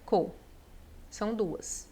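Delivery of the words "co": two syllables split by a long pause; separação silábica. Shown as a demonstration. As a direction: hold "dis", then place "co" apart. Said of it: "a gente vai separar". (sílaba por sílaba, com pausa)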